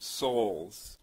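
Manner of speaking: souls set apart and drawn out; stress on souls. Shown as a demonstration. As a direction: lean on "souls" with a long, falling vowel. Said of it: "emphasize that word".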